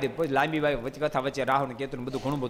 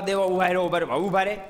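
raised voice; mild storyteller's yell, calling the gods to stop; calling after fleeing gods, lightly raised; 3 semitones higher than usual. Acted. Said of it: "રાડે રાડ બોલાવે".

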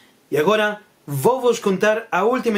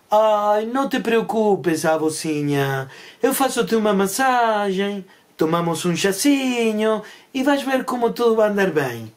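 slow, drawn-out comforting; lightly voiced girl consoling her granny; soothing girl. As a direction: reassure poor granny, stretching the words. Girl comforts toothless wolf.

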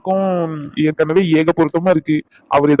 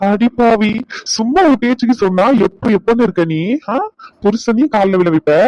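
mock outrage; 4 semitones higher than usual. Husband protests his wife's demand that he fall at her feet, in mock outrage. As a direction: act scandalised that she took him up on it. Wife tells him to fall.

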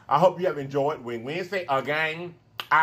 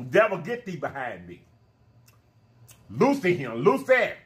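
rebuking. Real, not acted. Rebuking the devil.

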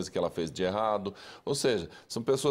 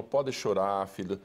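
tender comfort; 4 semitones lower than usual. Shown as a demonstration. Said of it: "pega no colo".

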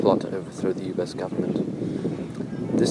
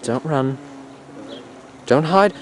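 calling after; 5 semitones higher than usual. Real, not acted. Narrator calling after an escaping bird, high coaxing voice. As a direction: call it back, climbing in pitch.

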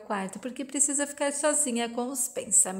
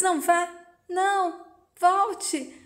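high, desperate plea for him to stay; don't go, come back; pleading; 6 semitones higher, slower than usual. A narrator's reading. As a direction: beg him not to leave. Pleading as he vanishes.

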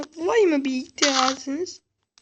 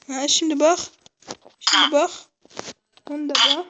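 taunting; 6 dB louder than usual. Pretend. Repeated taunting calls.

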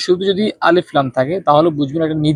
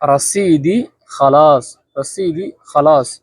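slow drill; slower than usual. Shown as a demonstration. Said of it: "আবার বলি".

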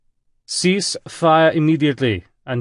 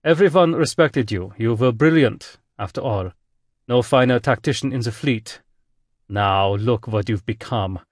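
German admiral booming, louder; 2 semitones higher, 3 dB louder than usual. Acted. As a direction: boom it over the speakers, reproachful. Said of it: "voice boomed over the speakers".

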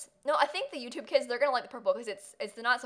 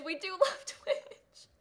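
giggly sing-song; 7 semitones higher, much slower than usual. Real, not acted.

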